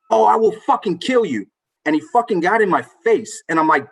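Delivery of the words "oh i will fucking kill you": high-pitched mock menace, not shouted; imitated threat. Homeless man threatening a dad beside his daughter, imitated angry threat. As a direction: act out the stranger's raging threat.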